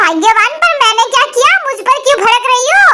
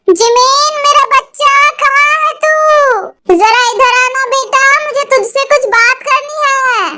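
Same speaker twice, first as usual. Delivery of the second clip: slow, higher, sugary call; sweetly calling; 3 semitones higher, slower than usual. Acted. Father calling his son Jimin, overly sweet. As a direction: coax the boy over lovingly.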